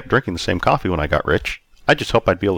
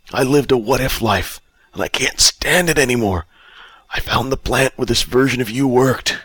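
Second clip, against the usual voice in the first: higher-pitched down-and-out character voice; destitute drunk Bob; 5 semitones higher than usual. Acted. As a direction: lament it as a broken-down drunk.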